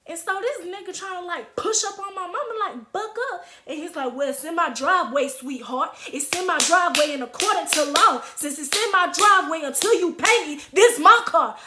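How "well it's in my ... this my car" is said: mock chest-out bossing; puffed-up, bucking. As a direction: imitate a man bucking up, building to a louder finish. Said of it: "bucking up his chest and stuff".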